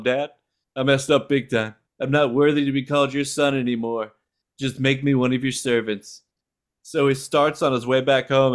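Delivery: lightly voiced Trump rally speech, hint of an impression; a mild imitation of Trump addressing the folks. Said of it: "in the style of Donald Trump".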